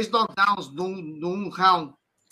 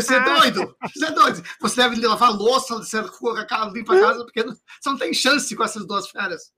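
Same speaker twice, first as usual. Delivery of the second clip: teasing loud warning; 3 semitones higher, 4 dB louder than usual. Retold or imitated. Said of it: "eu falei".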